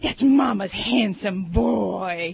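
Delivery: slow, cooing praise; baby talk statement. Shown as a demonstration. Vet demonstrating a cooing baby-talk statement to a pet. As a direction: tell the pet it's handsome in baby talk.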